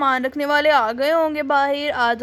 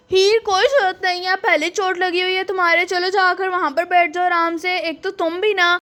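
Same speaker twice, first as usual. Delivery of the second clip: scolding; 3 semitones higher than usual. Acted. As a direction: snap at her to go sit down, worried. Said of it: "तुम तो डांटने ही लगे मुझे". (डांटते हुए, ऊँची आवाज़ में)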